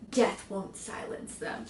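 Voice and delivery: slow spooky whisper; eerie whisper. Shown as a demonstration. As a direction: breathe it like a ghost story. Reading creepy cover tagline.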